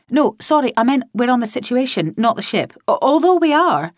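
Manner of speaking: put-on breezy young woman dodging blame; a hint of a scatterbrained colleague; lightly voiced cheerful Sykes. A narrator's reading.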